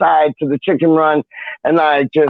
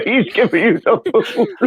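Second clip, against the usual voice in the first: laughing through the teasing line; amused laughing tease; 4 semitones higher than usual. Real, not acted. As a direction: chuckle out the jab at a friend. Teasing friend being sent off.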